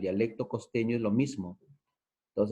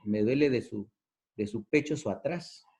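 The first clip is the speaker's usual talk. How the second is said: put-on Amazon jungle accent. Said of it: "como el caso de selvático".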